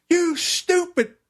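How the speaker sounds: high, drawn-out imitation of a cursing dad; retold angry yell. Injured father cursing his son, high angry yell. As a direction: draw out the insult in a high mock yell. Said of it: "And he's yelling".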